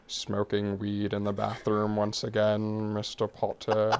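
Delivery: slow, drawn-out disdainful teacher; Snape voice. Acted. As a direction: drag it out with cold contempt. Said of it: "I love doing Snape".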